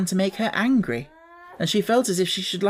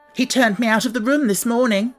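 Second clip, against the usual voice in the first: excited; 6 semitones higher, 3 dB louder than usual. A narrator's reading. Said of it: "stamping her foot in excitement".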